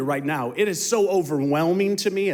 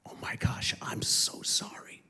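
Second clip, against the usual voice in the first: whispered, breathless I'm so sorry; almost no voice, like a confession; hushed apology; 6 dB quieter than usual. Retold or imitated. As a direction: whisper the apology close to her. Retold tearful apology to daughter.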